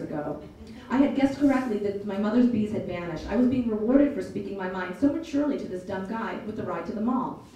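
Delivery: put-on lively audiobook read of a teen's story; story narration. A narrator's reading. Narrator reading a novel to listeners, storytelling voice. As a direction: tell it like a storyteller.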